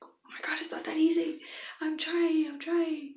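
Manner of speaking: hushed, high, strained whisper; whispered panic. Retold or imitated. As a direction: whisper it like you're struggling. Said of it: "I was just like".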